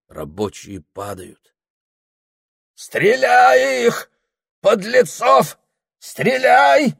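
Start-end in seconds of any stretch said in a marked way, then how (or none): 2.7-6.9 high, loud, slow frenzied yelling of orders; frenzied shout to open fire; crazed bawling. A narrator's reading. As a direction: bawl it like a madman ordering a massacre. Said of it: "Горланит рехнувшийся Прохор".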